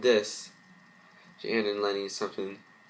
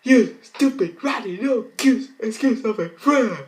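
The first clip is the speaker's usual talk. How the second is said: furious screaming insult; 13 semitones higher, 8 dB louder than usual. Acted. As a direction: spit each insult out in a scream. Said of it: "faint with her rage".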